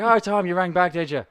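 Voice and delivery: loud, high Irish caller; exaggerated Irish customer; Leo. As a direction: greet him sarcastically in Irish voice. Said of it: "He's like".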